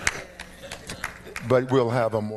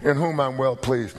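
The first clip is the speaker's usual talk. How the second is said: voice of God, alternate wording; 5 semitones higher than usual. Retold or imitated.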